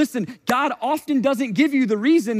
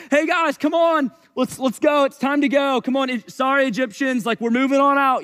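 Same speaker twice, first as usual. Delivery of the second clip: breezy casual; 3 semitones higher than usual. Pretend. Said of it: "This was not just like".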